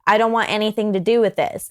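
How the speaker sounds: hint of a flustered other girl; different person. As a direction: play her as suddenly sorry and innocent. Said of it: "sounds like a completely different person".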